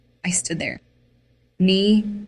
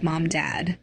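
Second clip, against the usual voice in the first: sobbing. Acted. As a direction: choke the names out through tears.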